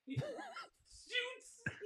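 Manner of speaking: breaks into laughter on the word; laughing. Real, not acted. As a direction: laughs through the word, voice jumping up. Cracking up mid-sentence.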